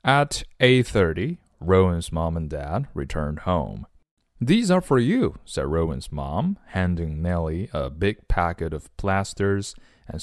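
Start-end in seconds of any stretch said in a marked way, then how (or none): 4.4-5.4 high, lilting mom's voice; high-pitched storybook mother; story mom. Acted. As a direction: voice a mom handing over a present, high-pitched. Mom handing over a gift in story.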